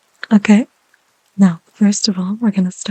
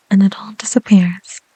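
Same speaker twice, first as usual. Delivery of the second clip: whisper. Real, not acted. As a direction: breathe the words gently. ASMR whisper.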